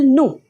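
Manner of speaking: "nous" said as noo, no s; "nous" ending on an open oo; silent final S. Shown as a demonstration. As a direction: drop the s at the end of "nous". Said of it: "we do not pronounce an S".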